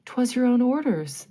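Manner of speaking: faltering. A narrator's reading. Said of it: "the boatswain faltered".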